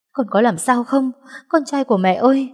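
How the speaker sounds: put-on cling to the boy, calling in fear; anxious mother's cry. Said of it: "run rẩy sờ mặt nó". (mẹ gọi con hốt hoảng, cao giọng)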